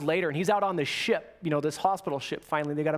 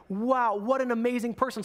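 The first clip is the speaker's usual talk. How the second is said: lightly acted awe, pitch raised; imagined amazement; 4 semitones higher than usual. Moviegoers after the premiere, imagined with mild amazement. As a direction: marvel at him in a higher voice. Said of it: "like, this amazement".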